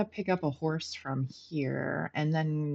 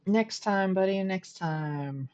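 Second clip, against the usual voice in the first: cartoon villain voice; 3 semitones higher, slower than usual. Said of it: "Just pretend I was making, like, Inspector Gadget, the evil guy".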